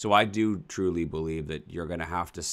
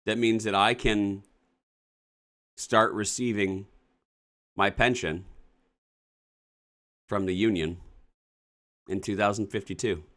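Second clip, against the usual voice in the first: dismayed disbelief; 5 semitones higher than usual. Real, not acted. Dismayed at early retirement letter.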